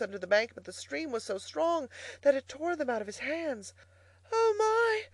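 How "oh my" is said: high-pitched, pitiful Toad; gasped dismay. A narrator's reading. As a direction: gasp it helplessly while being swept away. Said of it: "gasped poor Toad".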